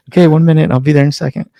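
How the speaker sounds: placating husband. Retold or imitated.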